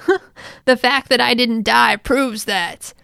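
lightly gruff tough-guy imitation; mock gruff captain; really gruff voice. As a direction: put on a gruff, mean voice. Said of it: "in a really gruff voice".

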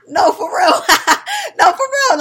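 high laughing protest. Real, not acted. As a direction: laugh through the words.

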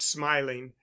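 ordinary delivery, nothing marked

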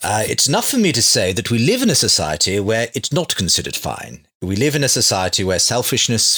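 lightly imitating Richard Dawkins' English accent, measured and unhurried; a hint of Richard Dawkins' English accent; Richard Dawkins impression. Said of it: "I'm gonna do my best Richard Dawkins accent now".

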